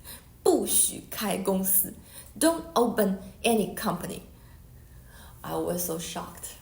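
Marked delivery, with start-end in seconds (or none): 0.0-4.2 a firm, louder repeated command; powerful voice. Retold or imitated. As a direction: repeat the order as the voice in the dream. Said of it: "powerful man's voice".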